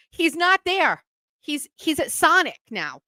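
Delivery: excited friend. Retold or imitated. Kathy tracking the cat.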